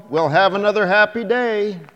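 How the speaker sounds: put-on high, loud child voice; cheerful little girl. A narrator's reading. Girl promising the man another happy day, high and bright. Child calling after him.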